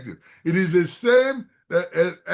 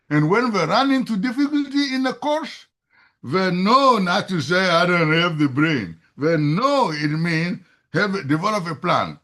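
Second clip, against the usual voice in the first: emphatic, louder lecturing; carried away by excitement, voice raised; raised voice, excited; 4 dB louder than usual. Real, not acted. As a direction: raise your voice with real conviction. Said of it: "for raising my voice".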